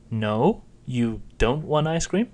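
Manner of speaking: surprised question rising on no and don't; rising tones. Shown as a demonstration. Adult asking a child about ice cream, rising. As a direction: ask it with surprise, tune climbing. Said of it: "no and don't are both rising".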